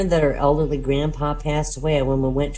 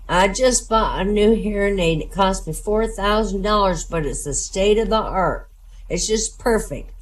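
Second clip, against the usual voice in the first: put-on old man voice; 5 semitones higher than usual. Elderly man boasting.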